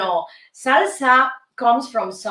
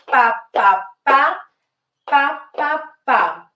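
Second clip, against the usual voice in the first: rhythm syllables. Shown as a demonstration. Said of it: "counting the steps".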